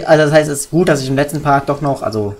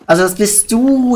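surprised; 9 semitones higher than usual. Acted. Voicing surprised character.

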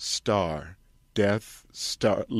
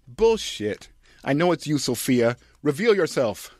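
accusing audience; 6 semitones higher, 4 dB louder than usual. Acted.

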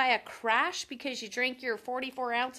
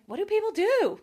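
higher and louder, baffled exclamation; exasperated outburst; 7 semitones higher, 5 dB louder than usual. Retold or imitated. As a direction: throw the question out loud in disbelief. Same question asked again aloud.

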